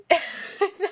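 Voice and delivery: high delighted laugh. Real, not acted. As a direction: laugh out loud. Laughs at Levi reading.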